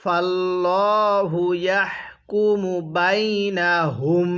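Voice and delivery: slow, drawn-out Arabic recitation; ধীরে তিলাওয়াত; slow Quran recitation. Shown as a demonstration. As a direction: recite each syllable slowly for the student. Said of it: "কিভাবে শিখব?".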